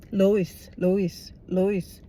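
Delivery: Stewie impression. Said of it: "like Stewie from Family Guy".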